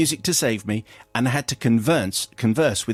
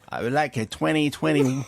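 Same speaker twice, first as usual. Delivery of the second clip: put-on French accent. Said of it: "outrageous French accent".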